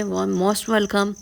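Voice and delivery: most welcome stretched very slowly; a slow, playful invitation to join the meal; drawn-out welcome. Acted. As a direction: linger on every sound of the welcome. Inviting viewers to share food.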